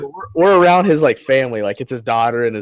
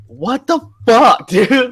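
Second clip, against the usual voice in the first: high, loud, slow laughing disbelief; shocked outburst; 12 semitones higher, 6 dB louder, much slower than usual. Retold or imitated. Retelling his stunned reaction to the elevator joke, high and laughing. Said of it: "I was like".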